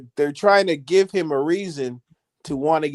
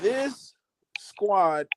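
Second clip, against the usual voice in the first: whisper; 3 semitones higher, 3 dB quieter than usual. Real, not acted. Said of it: "hushed emphasis".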